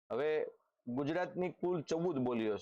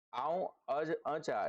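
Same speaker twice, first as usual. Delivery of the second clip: Kutchi dialect; 3 semitones higher, slower than usual. Shown as a demonstration. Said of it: "Kutchi બોલી".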